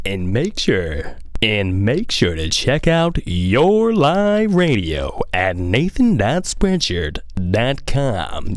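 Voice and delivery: slow, drawn-out radio announcer plug. Shown as a demonstration. Urging listeners to visit his merch site like a radio DJ. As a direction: sell it like a late-night DJ. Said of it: "how every radio D J sounds".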